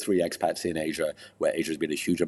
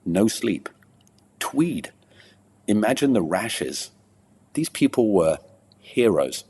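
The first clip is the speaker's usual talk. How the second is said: poem recital; 2 semitones higher than usual. Acted. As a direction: recite it like a performance poet, pausing between phrases. Recites his poem on racing.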